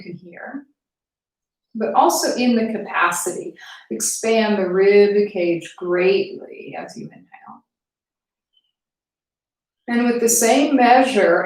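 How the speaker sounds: measured guiding voice with long pauses; guided meditation. Acted. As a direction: ease them into noticing their breath, unhurried. Leads breathing exercise.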